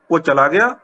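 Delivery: ਉਹ ਚਲਾ ਗਿਆ rising at the end; question intonation. Shown as a demonstration. Teacher asking by tone alone, rising question on ਗਿਆ. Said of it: "ਸਵਾਲ ਵੀ ਪੁੱਛਣਾ ਹੋਵੇ".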